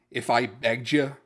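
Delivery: dry sarcastic question to his son. Retold or imitated. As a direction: lay the sarcasm on, mock-pleading. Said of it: "Very sarcastically".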